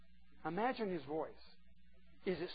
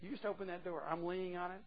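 soft, quiet pleading; tender invitation; 7 dB quieter than usual. Pretend. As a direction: gently plead through the door. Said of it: "He says".

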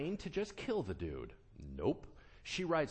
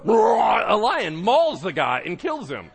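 slow, much louder, laughing; laughing shout; 7 semitones higher, 14 dB louder, slower than usual. Real, not acted. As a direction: shout it through laughter, slowly. Dramatic lion attack, laughing.

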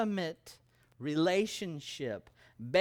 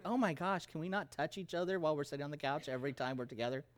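laughing; 3 dB quieter, much faster than usual. Retold or imitated. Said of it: "She was like".

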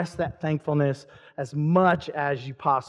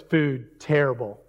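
complaining monk; 5 semitones lower than usual. Acted. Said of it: "and he goes".

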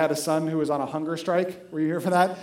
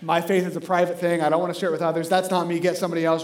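harsher refusal; 2 semitones lower, 3 dB louder than usual. Retold or imitated. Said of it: "Or even harsher".

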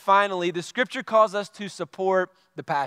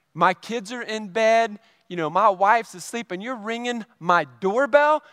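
mock-mad scolding, pitch climbing; retold huffy anger; 5 semitones higher than usual. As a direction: act out huffing indignation, drawing out the final question. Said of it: "I'm all huffing and puffing and mad".

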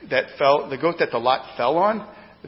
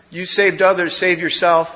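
louder, jeering cry of "You saved others"; mocking crowd shout; 3 semitones higher, 7 dB louder than usual. Crowd at the cross jeering Jesus, loud mocking shout. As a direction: hurl it up at the cross as a taunt. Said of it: "No, people shouted".

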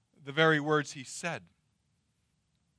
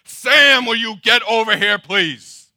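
full-volume, raised-pitch yell; screaming parent; 5 semitones higher, 16 dB louder, slower than usual. Shown as a demonstration. Exasperated father calls Sam over, screaming. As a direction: yell it at the top of your lungs. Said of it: "screaming at the top of your lungs".

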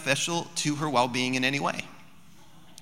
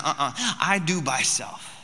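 slow toddler refusal, lightly acted; hint of a stubborn little kid, drawn out; imitating toddler. Two-year-old refusing help with her shirt, lightly imitated. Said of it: "She said".

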